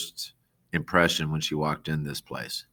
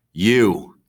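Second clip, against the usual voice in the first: louder barked command; commanding shout; 4 semitones higher, 8 dB louder than usual. A narrator's reading. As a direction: order him sharply. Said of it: "Henry said, jabbing a finger".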